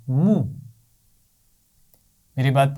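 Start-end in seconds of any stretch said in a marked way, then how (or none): 0.1-0.3 clean short مو with pesh; short mu sound. Shown as a demonstration. Teacher models the pesh syllable for children, short and calm. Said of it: "اور پیش کے ساتھ میم کی آواز ہوگی".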